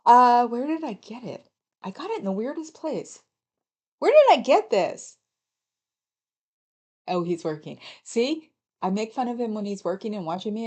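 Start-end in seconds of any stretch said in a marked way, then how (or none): 0.0-5.2 loud, high calling across the house; yelling questions. Real, not acted. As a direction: call out to someone in another room. Sitting here yelling questions.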